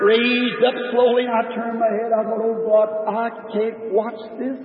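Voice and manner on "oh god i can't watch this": anguished plea. Retold or imitated. Inner anguish watching the shot.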